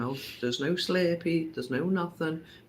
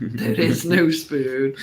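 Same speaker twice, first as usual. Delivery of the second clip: Matrix quote; 5 dB louder, slower than usual. Retold or imitated.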